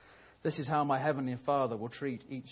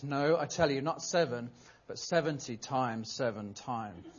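patient sigh. Acted. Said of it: "Jesus sighs and replies".

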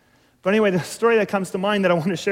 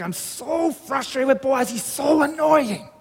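put-on high, slow, drawn-out child's complaint; angry frustrated child; 7 semitones higher, slower than usual. Boy venting to his dad about his brother, angrily frustrated. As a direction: act a boy worked up with anger. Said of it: "he's rigid with anger".

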